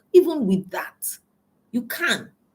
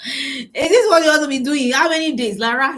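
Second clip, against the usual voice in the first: telling herself off to get up; scolding herself; 3 semitones higher than usual. Retold or imitated. A coach scolding her own grieving self. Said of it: "I told myself".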